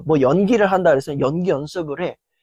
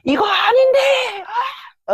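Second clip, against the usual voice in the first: angry outburst. Retold or imitated. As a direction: yell in irritation at your own failure. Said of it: "괜히 내가 막 화를 내".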